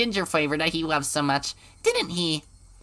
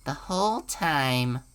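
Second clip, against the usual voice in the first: creepy low voice; 3 semitones lower, 3 dB quieter, slower than usual. Acted.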